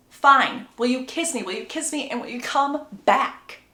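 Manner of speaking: throw-your-arms-up surrender; acted grudging plea; exasperated giving-in. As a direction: give in with a dramatic flourish. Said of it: "that's how I'm imagining her saying it".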